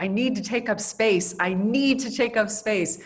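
animated quote, leaning hard on NEED; insistent retelling of an animated declaration, stressing NEED. Retold or imitated. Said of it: "she's very animated".

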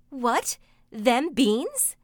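high loud disbelief; stunned mother; shocked. A narrator's reading.

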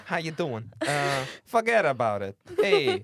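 hammed-up New York wiseguy; playful New York catchphrase voice; mock New York accent. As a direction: do a jokey New York tough-talker accent. Riffing on New York stock phrases.

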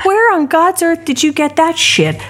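half-acted indignant swearing; retold outrage. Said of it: "I was so angry".

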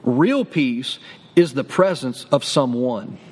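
low, slow, every word weighted; weighty slow declaration; slow low emphasis. Shown as a demonstration. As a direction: let it land slowly and low. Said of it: "I'm gonna say that again".

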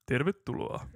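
charismatic voice. Shown as a demonstration. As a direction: try on a charismatic TV presenter voice. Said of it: "voin mä kyllä ottaa tämmösen karismaattisen äänen". (tekokarismaattinen uutisankkurin ääni)

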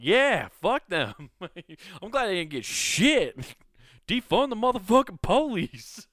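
loud, high, cackling through the words; laughing mock defiance. Prisoner gloating that police got nothing, laughing loudly. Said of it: "radically defund the police".

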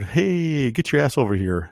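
high rowdy stage yell; rock-frontman banter. Retold or imitated. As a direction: bark it like a metal singer on stage. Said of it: "That's some of my favorite banter".

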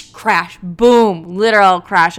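loud, punchy impact words; explosive imitation of a smash; crash sound effects. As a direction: burst in with the collision. Acts out the crash again.

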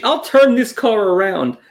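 a hint of mock scolding; threatening pilot. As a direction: mildly mimic a fed-up pilot. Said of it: "A Southwest Airlines pilot threatened".

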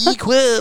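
high EE-quip, exaggerated first vowel; strong E. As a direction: lean hard on the E in Equip. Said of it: "strong E".

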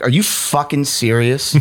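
mild exasperated yell, imitated; retold yell. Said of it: "I yelled at him".

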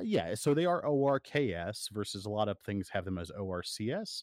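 spelling out O R K S against O R C S letter by letter; spelled out. Shown as a demonstration. Host spells orc for Josh, letter by letter. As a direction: read each letter apart: O R K S, then O R C S. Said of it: "It's spelled different".

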